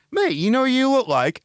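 high, eager blurted question; excited blurt. Retold or imitated. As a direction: blurt it out, unable to help yourself. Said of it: "But I went".

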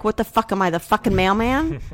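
exaggerated mock-indignant quote of a partner; mimicking an insensitive reply; mocking imitation. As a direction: throw their words back at them, indignantly. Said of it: "I didn't say it like that".

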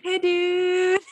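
very high, drawn-out mock British; attempted British accent. Shown as a demonstration. Answering a friend's plain version, very high attempted British. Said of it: "it sounds very not British, though".

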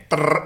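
buzzing mock drill; drill noise. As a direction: rattle it like a scaffolder's drill gun. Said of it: "holding the gun, going".

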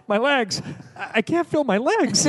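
shouting while wounded in an American accent. Shown as a demonstration. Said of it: "just do it for a second in the American accent".

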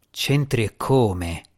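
slow, cold and cutting; cruel. Acted. Asmira coldly cutting down the djinni. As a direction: lay it down coldly, slowly. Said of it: "Disse Asmira crudele".

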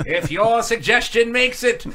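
slow announcer delivery; mock announcer. Host teasing next week's show, slow mock announcer. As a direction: draw it out for the tune-in tease. Repeats own line as announcer.

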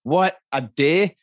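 high, incredulous outburst; amazed, rising in pitch; real astonishment. Real, not acted. Astonished at the daily limit.

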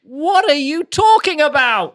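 high, loud disbelieving outburst; aghast. Acted. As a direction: splutter in disbelief. Aghast Penny.

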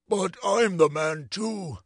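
slow, drawn-out lament; mournful. Acted. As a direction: protest it sorrowfully, stretching the words. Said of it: "said our friend mournfully".

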